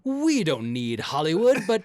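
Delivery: mock conceited. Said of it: "It's weird 'cause it's like".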